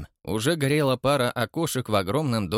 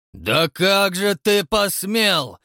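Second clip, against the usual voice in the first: slow, loud, high roar; 8 semitones higher, 5 dB louder, much slower than usual. A narrator's reading. Count roars at the watchman who shot at him. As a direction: roar in outrage. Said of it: "взревел Добродумов".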